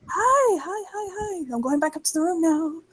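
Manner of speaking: high, small voice; softly squeaked string of hellos; embarrassed, trying to slip away; sheepish phone greeting. Acted.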